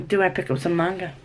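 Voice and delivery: quick, casual question to oneself; quick musing. Real, not acted. Vlogger wonders about picking up manga, quick musing. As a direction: toss the question out fast. Asks herself, then repeats it deliberately.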